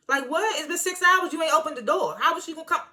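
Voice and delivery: high-pitched, exasperated questions; high exasperated disbelief; incredulous rant. Real, not acted.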